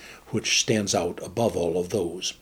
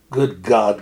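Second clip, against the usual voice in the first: louder startled outburst from the captain; cried out; 4 dB louder than usual. Acted. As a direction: blurt it out in alarm. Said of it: "cried the captain".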